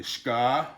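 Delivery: SHKA drawn out on a long ah; slow separate syllable Shka; long double A. Shown as a demonstration. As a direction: hold the A in Shka. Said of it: "the double A".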